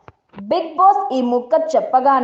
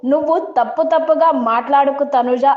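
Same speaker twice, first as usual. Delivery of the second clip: raised voice; 5 semitones higher than usual. Retold or imitated. Divya raising her voice at Tanuja, mildly heated. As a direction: retell the voice rising in a quarrel. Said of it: "Divya voice raise చేసింది".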